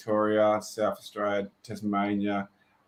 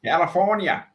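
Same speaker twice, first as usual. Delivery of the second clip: higher-pitched mock American accent; put-on American twang, raised pitch; attempted Californian accent; 5 semitones higher, 3 dB louder than usual. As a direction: echo it in a playful Southern US accent. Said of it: "that's not Californian accent".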